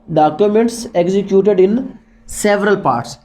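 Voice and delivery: slowed, deliberate repeat; slow dictation. Shown as a demonstration. Teacher repeating the phrase slowly for notes. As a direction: say each word so it can be written. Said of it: "teacher repeats phrase slowly".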